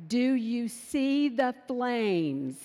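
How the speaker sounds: slow, laughing disbelief; mock-exasperated mom; exasperated retort. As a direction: spell out the obvious to your child. Mother's exasperated retort mid-fire.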